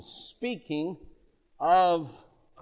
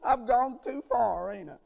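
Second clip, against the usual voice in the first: retold child close to tears; lightly voiced, worried little boy; a touch of tearfulness, imitating a child; near tears. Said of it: "Then I could tell he was about in tears".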